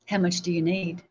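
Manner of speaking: softly voiced, tender question; understated, loving tone; gentle, loving question. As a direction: ask it kindly and softly. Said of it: "he very lovingly says".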